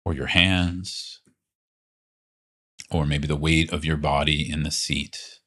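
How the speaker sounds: calm, unhurried guidance with long pauses; guided meditation. Real, not acted. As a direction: gently lead them into body awareness, leaving space between phrases. Leads a guided body awareness practice.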